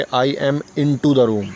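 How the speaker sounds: slowly sounded-out wrong sentence "I am into the room"; slow demo of the mistake; slow wrong example. Shown as a demonstration. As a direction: say the wrong version slowly as a warning. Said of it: "तो मैं ये नहीं कहूँगा कि".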